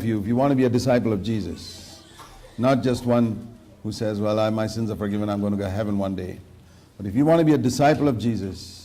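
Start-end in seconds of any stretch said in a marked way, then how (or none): 4.2-6.4 quick, softer, offhand brush-off; mock complacent mumble. Preacher mocking a complacent believer, quick and offhand. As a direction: toss it off like a smug excuse.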